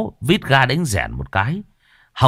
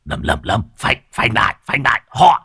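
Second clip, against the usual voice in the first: rising panic. Acted. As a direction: beg him to brake, growing terror. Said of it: "Muôn Phọt tái màu". (hoảng dần, từ nhỏ đến hét to)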